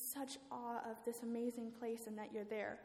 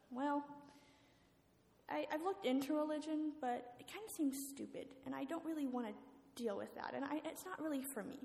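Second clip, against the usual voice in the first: dismissive coworker; 5 semitones higher than usual. Acted. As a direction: brush faith off as not for him. Coworker dismisses religion in story.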